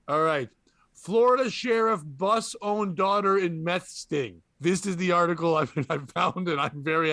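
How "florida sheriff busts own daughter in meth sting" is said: slow, deliberate headline delivery; news headline read. Acted. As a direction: announce it like a headline.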